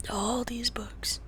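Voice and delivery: all these books, slow and breathy; slow whisper. Real, not acted. Showing Pixel the books, slow whisper. Whispered then repeated aloud.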